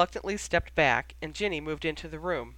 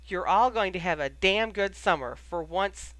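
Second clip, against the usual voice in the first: DAMN GOOD punched in "damn good summer"; emphatic; 2 semitones higher than usual. A narrator's reading. Sirius insisting on a good summer, emphatically. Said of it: "banging his fist in his hand for emphasis".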